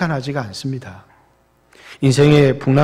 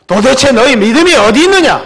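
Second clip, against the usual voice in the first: loud, much higher thundering reproach; stern rebuke; 10 semitones higher, 10 dB louder than usual. Acted. Jesus scolding disciples who lack faith, thundering loud rebuke. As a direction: hurl the question at them like a scolding master. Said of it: "이렇게 질책을 하시는 것이죠".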